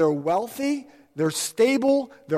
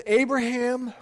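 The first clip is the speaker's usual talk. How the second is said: God's promise; 4 semitones lower than usual. Retold or imitated. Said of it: "he says".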